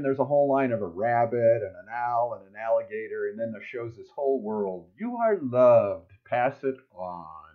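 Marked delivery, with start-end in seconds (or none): 5.0-7.5 tender. Acted. The whole world gets the message.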